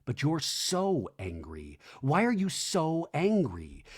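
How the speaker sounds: quietly exasperated, measured and slow; imitated buttoned-up anger. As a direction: keep the imitated anger buttoned up, drawing out the words. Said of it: "just buttoned up anger".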